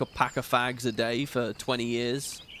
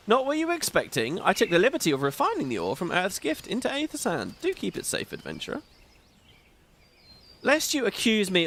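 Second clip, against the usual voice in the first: a grand, courtly spirit who is delighted by the show; theatrical NPC voice; 4 semitones higher than usual. Acted. Streamer voicing the disembodied NPC to viewers, lightly grand and courtly. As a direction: play it as a pompous, pleased disembodied voice. Reads NPC dialogue aloud.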